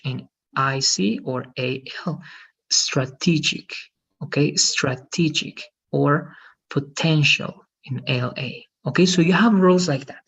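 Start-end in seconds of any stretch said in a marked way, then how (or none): 2.7-3.7 slow "strategic", stressed on TE; second-syllable stress. Shown as a demonstration. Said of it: "The second syllable". 4.6-5.6 slow "strategic", stressed on TE; second-syllable stress. Shown as a demonstration. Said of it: "The second syllable". 6.7-7.6 slow "potential", stressed on TEN; careful demo of "potential", weight on TEN; second-syllable stress. Shown as a demonstration. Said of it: "The second syllable".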